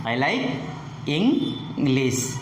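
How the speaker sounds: "English" up on the first syllable, down on the second; falling tone. Shown as a demonstration. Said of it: "goes up on the first syllable".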